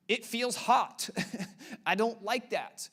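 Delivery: high, slow mock whine; drawn-out baby grumbling, hammed up; crying baby. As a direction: play a fussy baby with a chuckle. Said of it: "You cried like this".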